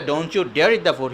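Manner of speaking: firm weight on "Don't you DARE"; emphatic negation. Shown as a demonstration. Big brother making little brother think twice, firm warning. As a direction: forbid it with force on "dare". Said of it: "I put more emphasis on the negation".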